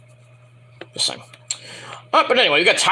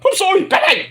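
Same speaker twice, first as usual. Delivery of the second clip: high silly voice; 11 semitones higher than usual. Acted. Voicing Terry again.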